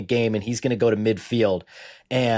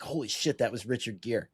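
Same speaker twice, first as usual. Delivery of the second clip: retold realization; 9 dB quieter than usual.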